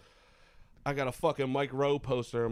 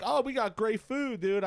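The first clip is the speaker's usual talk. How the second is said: mock bartender; 9 semitones higher, 4 dB louder, slower than usual. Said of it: "she was like".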